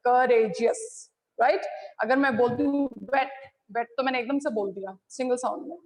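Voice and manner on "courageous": courageous in three distinct beats, cou, ra, geous; courageous counted out syllable by syllable; broken into syllables. Shown as a demonstration. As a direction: separate the three sounds of courageous. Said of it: "three sounds अलग अलग आई".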